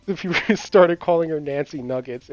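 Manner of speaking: laughing through the nickname. Real, not acted. Telling a friend the funny nickname, breaking into laughter. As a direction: giggle while you say it.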